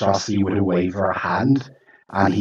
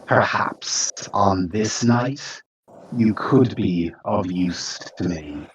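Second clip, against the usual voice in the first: slow, lightly sibilant creature voice; serpentine hiss. Acted. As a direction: draw it out like a serpent, faintly hissed. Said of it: "like, serpentine hiss".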